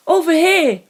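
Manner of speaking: high shout; calling out. Acted. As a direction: call him over from the garage. Hirose calling him over.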